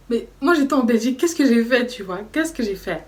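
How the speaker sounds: what did I even do; indignant protest. Retold or imitated. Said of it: "je dis".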